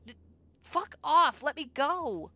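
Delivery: screamed high and loud at the attacker; desperate scream. Acted. Ella struggling against the thug, screaming. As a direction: shriek to break free.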